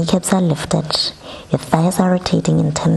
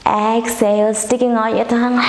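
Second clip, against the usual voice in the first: lion roar; 7 semitones higher than usual. Shown as a demonstration. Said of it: "Roaring like a lion".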